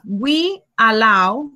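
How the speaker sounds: drawn out word by word; teacher reading the exercise aloud; slow read of the prompt. Shown as a demonstration. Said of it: "So here we have".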